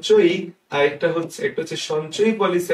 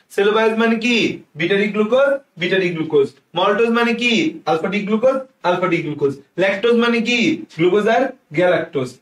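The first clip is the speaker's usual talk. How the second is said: call and response drill; 3 semitones higher than usual. Shown as a demonstration. Teacher drilling students in names, call and response. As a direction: lead the class in a chant-like recital. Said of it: "আর আমার সাথে একটু উচ্চারণ করো".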